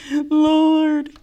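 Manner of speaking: high, drawn-out whine of Lord; whiny plea. Retold or imitated. Retelling her breakdown to Carolyn, a high whine. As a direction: whimper Lord like a crying child. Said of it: "my inside voice was whining".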